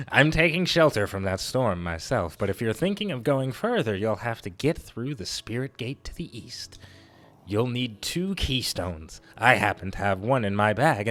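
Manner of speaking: lightly swooping silly wanderer; a hint of silly singsong for a game character. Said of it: "I'll give him a silly voice".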